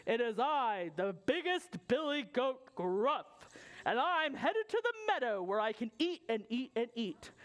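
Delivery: lightly voiced big bold goat; biggest billy goat. Biggest goat answers the troll.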